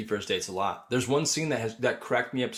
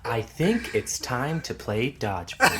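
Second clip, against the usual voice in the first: slow put-on voice; movie quote; slower than usual. Friend quoting Billy Madison, slow put-on voice. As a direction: drawl it like a goofy movie character. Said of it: "referenced it".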